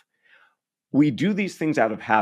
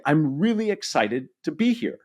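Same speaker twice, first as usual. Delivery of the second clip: higher-pitched, sincere excitement; demonstrated excitement; 6 semitones higher than usual. Shown as a demonstration. Coach modelling how to name an emotion, excited. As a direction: lift the pitch with modest excitement. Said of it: "You demonstrate it, but you also say it".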